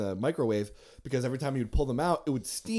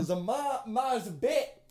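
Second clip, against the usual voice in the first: pleading; 10 semitones higher, 4 dB quieter than usual. Retold or imitated. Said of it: "And I was like".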